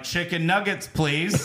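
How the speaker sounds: lightly voiced trick-or-treating child; begging kid. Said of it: "where your kids beg for food".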